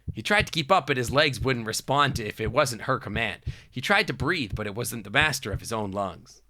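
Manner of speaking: measured storybook reading; story narration. Acted. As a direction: read it out like story prose.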